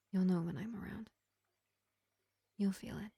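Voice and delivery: lightly voiced vampire healer, projected above the chatty voice; gentle vampire medic. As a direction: play a measured vampire reassuring a wounded elf, with long pauses. Vampire takes leave of the elf.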